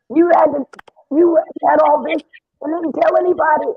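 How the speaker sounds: high, astonished reproach; imitating someone stunned by a hidden talent; retold amazement. Retold amazement on hearing her sing.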